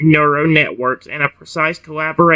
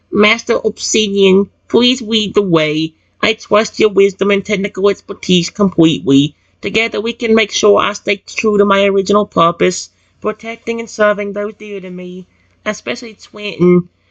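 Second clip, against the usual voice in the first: put-on high, robotic baby dinosaur voice; 5 semitones higher, 3 dB louder than usual. A baby T-Rex addresses his master, in a robotic baby dinosaur voice. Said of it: "robotic baby dinosaur voice".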